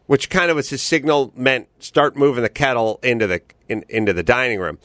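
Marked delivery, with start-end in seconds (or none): none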